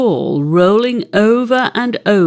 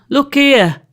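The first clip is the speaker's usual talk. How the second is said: eager show; 5 semitones higher, 3 dB louder than usual. A narrator's reading. Tom shows the otter.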